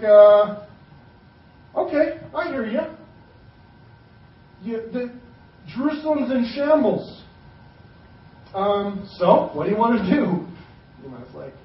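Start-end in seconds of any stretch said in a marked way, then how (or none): 1.8-10.4 higher-pitched, lightly acted king; voicing the king. King answering Nehemiah about ruined Jerusalem, lightly voiced and higher. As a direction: play a hesitant king sizing up the request. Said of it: "the king's like".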